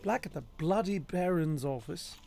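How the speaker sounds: lightly put-on British accent; understated mock-British delivery. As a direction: say it with a mild British lilt. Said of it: "if I say that in a British accent".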